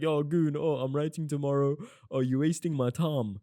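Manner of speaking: annoyed student. Retold or imitated. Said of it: "some of you are just gonna beef at me, like".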